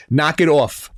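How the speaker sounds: New York accent. Shown as a demonstration. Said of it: "in my, uh, New York accent".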